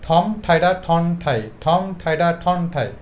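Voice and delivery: brisk, even repetition; fluent speeded-up drill; quick tongue twister. Shown as a demonstration. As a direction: run the words together without stopping. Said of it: "দ্রুত বলার চেষ্টা করতে হবে".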